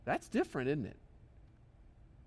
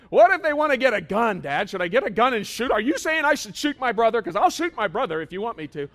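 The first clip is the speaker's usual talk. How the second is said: put-on whiny kid objection; 6 semitones higher, 8 dB louder than usual. Preacher voicing his kids' wild scenario, loud and high. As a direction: drag it out like an absurd kid question. Kids raising extreme objections.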